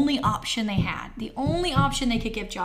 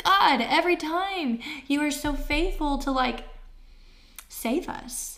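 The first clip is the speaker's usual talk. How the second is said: heartfelt prayer; 4 semitones higher than usual. Retold or imitated. Retelling her thankful prayer.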